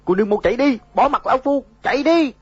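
dying man's final cry, high and loud; last breath. A narrator's reading. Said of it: "nói xong liền tắt thở".

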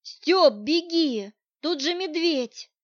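frantic cry to flee from a bear; panicked. Acted. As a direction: urge her to run, near panic. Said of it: "запаниковал я".

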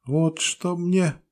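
very high, slow peasant woman. A narrator's reading. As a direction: drag it out, way up high.

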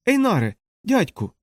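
high-pitched cry of recognition; exclaiming. A narrator's reading. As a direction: call out to your uncle, pitch leaping up. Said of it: "і вигукнув". (вигук високим голосом)

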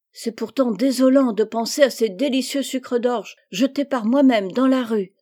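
mildly acted childish dismay; dismayed complaint. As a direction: lament it like an aggrieved little girl. Amy laments her lost sweets.

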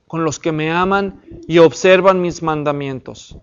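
measured Bible reading, slowing on the warnings; scripture reading. Acted. Teacher reading Exodus aloud to the class, measured and solemn. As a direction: read the passage like a lector.

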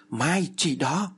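slow, drawn-out high call; commanding shout. Acted. Medium calls to Mai for the thread, slow commanding shout. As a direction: bark the order across. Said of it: "Cô Loan liền hét lớn".

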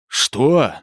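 loud threatening what; menacing shout. Acted. Yuri shouting threateningly at Mura, loud. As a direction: bark it out in menace. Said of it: "грозно закричал Юрий".

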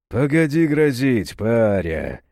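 lightly voiced bass warning; a hint of a booming big man; deep bass. Black-haired man warning Serafim, lightly bassy. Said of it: "пробасил черноволосый".

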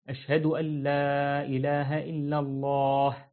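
steady, plain recitation without stretched notes; even, unadorned testimony at a moving pace. Shown as a demonstration. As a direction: say it straight through like the iqama, no singing. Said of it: "الإقامة أسرع".

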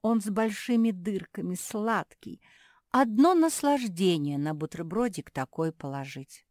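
savouring. Acted. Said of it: "облизнулась Зефирка".

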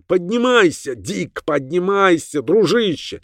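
high, agitated urging; high-pitched desperate call; urgent cry. A narrator's reading. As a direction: urge a fallen friend up. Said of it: "кричал он".

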